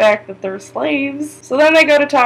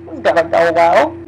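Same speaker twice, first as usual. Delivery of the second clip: mock sarcastic quote; 3 semitones lower than usual. Wildling leader mocking the plan to scale the wall, sarcastic. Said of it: "he's like".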